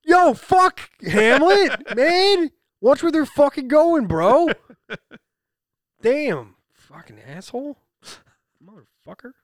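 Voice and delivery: loud, high New Jersey rant; New Jersey accent. Shown as a demonstration. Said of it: "very New Jersey speaking voice".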